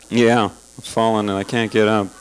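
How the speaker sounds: hammed-up helpless old lady; old woman voice.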